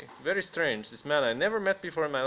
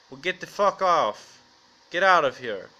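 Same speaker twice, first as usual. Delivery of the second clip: loud, mock-tough send-off; mock angry dismissal; 6 dB louder than usual. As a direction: shoo them off loudly, hamming up the anger. Mock dismissal of slow fans.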